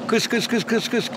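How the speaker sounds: soft clipped kıs chirps; imitating the K-letter call. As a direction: hiss out the kıs calls. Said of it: "K harfinden".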